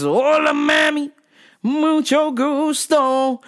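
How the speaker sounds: high, slow, syrupy put-on voice; mock sing-song greeting. Staffer cooing at the comic in a put-on high voice. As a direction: coo the greeting in a high sugary voice.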